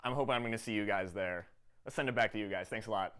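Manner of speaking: loud sign-off. Real, not acted. Loud wrap-up at event.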